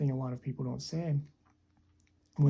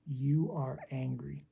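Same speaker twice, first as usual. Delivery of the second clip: commanding. Shown as a demonstration. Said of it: "Command, direct, telling a person".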